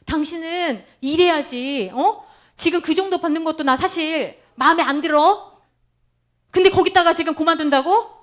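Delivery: mock scolding husband. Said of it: "이렇게 가면 안 된다는 거예요".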